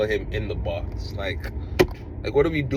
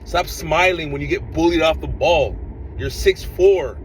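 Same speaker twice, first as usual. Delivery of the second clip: exasperated yelling; 5 semitones higher than usual. Real, not acted. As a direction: demand he fight back, fed up. Fan yelling at his striker.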